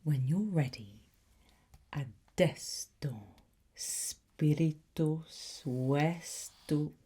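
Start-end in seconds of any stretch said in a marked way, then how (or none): 3.8-6.9 spiritus vestu- cut off mid-word by the stumble; slip of the tongue. Acted. Tutor fumbling the incantation. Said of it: "Even I got that wrong".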